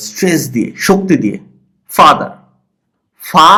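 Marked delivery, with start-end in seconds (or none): 1.9-2.3 ফা hit firmly in ফাদার, দার let fall; stress on first syllable. Shown as a demonstration. Teacher showing which part takes force, first-syllable stress. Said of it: "একটু জোর দিয়ে পড়তে হবে". 3.2-3.5 ফা said with force; stressed syllable. Shown as a demonstration. Teacher showing the strong part of father, stressed. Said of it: "জোরে হয়".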